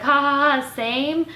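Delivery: mock awkward laugh. Vlogger imagining a reply to her roommate, fake laugh. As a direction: pretend to play along with a laugh. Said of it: "what am I gonna say".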